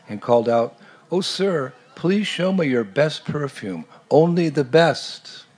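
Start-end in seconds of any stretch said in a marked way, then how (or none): 1.1-5.5 high, slow eager plea to the merchant; eager calling out. Acted. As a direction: call out pleading for the best, pitched high and drawn out. Chaitanya calls out to merchant.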